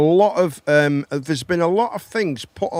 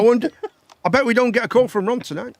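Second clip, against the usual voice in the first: higher, louder jokey Scouse caller; mock caller voice; 7 semitones higher, 3 dB louder, faster than usual. Host mocking a caller, high and loud. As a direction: put on a cheeky caller's voice.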